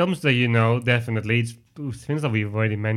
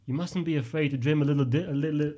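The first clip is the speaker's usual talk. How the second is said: acted Tom Hardy line; 3 semitones higher, faster than usual. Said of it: "Tom Hardy's character".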